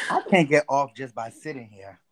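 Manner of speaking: stifled giggles. Real, not acted. Laughing while on mic.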